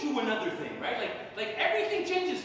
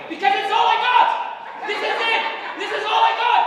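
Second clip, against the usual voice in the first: high, very loud self-defence; loud on stage; 7 semitones higher, 8 dB louder than usual. Acted. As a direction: bellow the excuse at the crowd. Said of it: "why so loud on stage".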